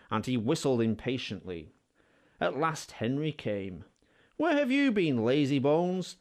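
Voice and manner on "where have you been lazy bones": higher, mock-cross scolding; Thomas crossly. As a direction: tease him like a grumpy little engine. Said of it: "asked Thomas crossly".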